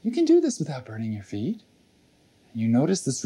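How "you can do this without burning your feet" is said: little inner voice. Acted. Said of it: "and a little voice goes".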